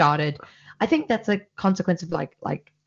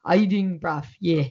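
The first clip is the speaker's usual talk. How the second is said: mock South African street slang; casual South African bru impression; South African accent. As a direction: put on a rough-and-ready South African accent. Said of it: "they talk like this, and they're like".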